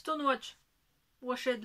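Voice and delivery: English brand name "Stonewatch. Washed" in a strong French accent. Real, not acted. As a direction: say "Stonewatch" the French way, self-mocking. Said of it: "toujours mon super accent".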